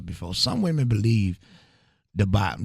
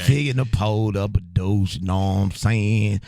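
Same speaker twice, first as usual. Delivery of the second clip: Screw. Shown as a demonstration. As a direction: talk like a Houston mixtape host. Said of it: "that's a screw impression".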